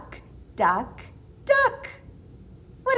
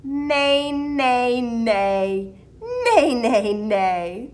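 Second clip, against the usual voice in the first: neighing; 3 dB louder, much slower than usual. Acted. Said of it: "That brown horse says".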